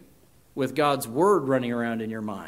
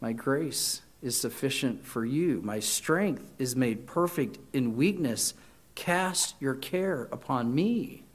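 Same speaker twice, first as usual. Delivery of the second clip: tender comfort; 2 semitones lower, 5 dB quieter than usual. Acted. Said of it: "God's word embraces me and says".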